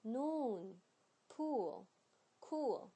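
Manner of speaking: "noon, pool, cool" with long, drawn-out oo; slow, stretched oo in "noon, pool, cool"; long vowel. Shown as a demonstration. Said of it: "长音noon".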